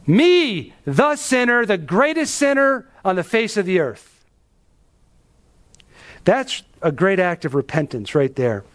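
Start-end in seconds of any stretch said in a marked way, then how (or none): 0.0-4.2 self-abasing sinner. Acted. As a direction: confess as the very worst of sinners. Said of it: "This was his attitude".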